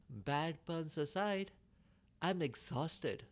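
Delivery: weary, slow and breathless tortoise; trickster tale voices. Acted. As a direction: drag it out like an exhausted old tortoise. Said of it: "it was out of breath".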